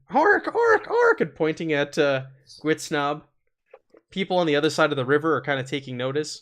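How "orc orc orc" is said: very high, shrill goblin voice yelling. A game master voices a goblin close to a player's character: shouting goblin. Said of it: "a goblin there really close to you who's shouting".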